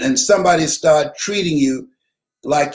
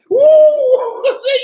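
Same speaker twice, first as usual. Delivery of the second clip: high and louder, laughing out the words; 6 dB louder, much slower than usual. Real, not acted. Cracking up at the friend's answer, laughs loudly and high.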